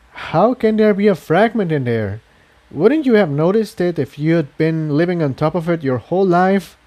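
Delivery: puzzled filly asking fast; a hint of an eager young mare; curious young mare. Incendia questions Jigsaw.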